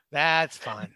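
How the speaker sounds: laughing it off. Real, not acted. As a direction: chuckle through it. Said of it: "repeated laughing".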